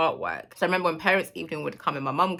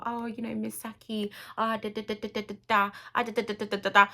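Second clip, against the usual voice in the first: mock school placating; 4 semitones higher than usual. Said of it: "they're just trying to give her".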